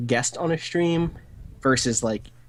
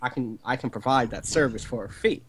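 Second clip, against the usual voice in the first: a hint of a smooth Southern con man pitching a deal; lightly put-on Southern huckster offering a service. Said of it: "I just slipped into Southern Con Man as my character".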